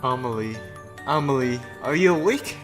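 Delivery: soft worried call. Acted. Sophia trying to wake Amelie, soft and worried. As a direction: softly try to rouse a friend. Heroine tries to wake entranced friend.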